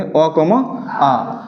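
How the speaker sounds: अ comma आ spelled out very slowly; teacher spelling letters for students to copy; slow dictation. Shown as a demonstration. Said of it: "क्या लेंगे?".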